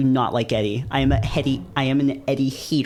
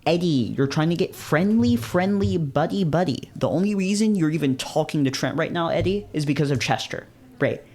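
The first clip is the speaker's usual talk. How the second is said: sneering Eddie; 5 semitones higher than usual. Acted. Voicing cold hostile character Eddie.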